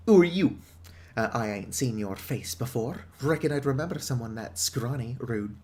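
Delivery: gruff British pub owner, lightly voiced; British publican. Pub owner warning the outsider off, British accent. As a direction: warn off the outsider like an old barkeep.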